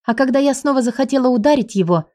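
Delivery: usual speaking voice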